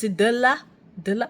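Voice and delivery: "Dla" broken into duh-la; mispronounced Dla. Shown as a demonstration. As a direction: imitate "Dla" with a vowel slipped between d and l. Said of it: "But can they say the Dla?".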